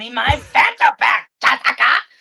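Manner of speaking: put-on sudden screaming. Retelling how someone screamed from behind while a drink was placed in frame: imitating Patrick screaming. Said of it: "he screamed".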